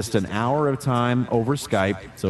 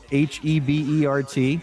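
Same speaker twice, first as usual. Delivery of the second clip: spelled out; 4 semitones higher than usual. Shown as a demonstration. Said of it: "my name is spelled".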